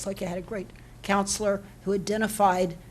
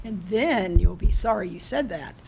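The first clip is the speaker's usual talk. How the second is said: teacher voice; 5 dB louder than usual. Real, not acted. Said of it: "I need to get my teacher voice back".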